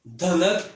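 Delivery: दनक with a full, heavy, loud द; heavy letter sound. Shown as a demonstration. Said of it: "भारी आवाज़ वाले हरूफ". (भारी आवाज़ में दनक)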